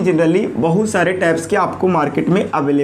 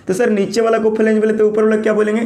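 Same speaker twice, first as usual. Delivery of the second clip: student's question; 4 semitones higher, faster than usual. Pretend.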